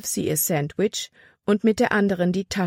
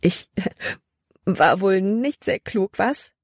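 slow words through giggles; Libby laughing at herself after the fright; giggling; 3 semitones higher, slower than usual. A narrator's reading. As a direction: giggle at your own foolishness. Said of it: "Libby kicherte".

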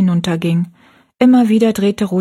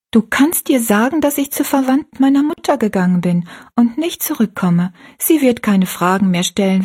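lightly voiced girl, somewhat higher; a hint of a gentle young girl; young girl Rosalie; 3 semitones higher than usual. Rosalie speaks to Betty Ann.

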